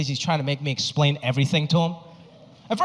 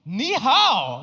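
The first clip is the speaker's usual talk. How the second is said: high put-on greeting voice; mock greeting; 5 semitones higher than usual. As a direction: ham up a stranger's ni hao. Mocking stranger greeting him.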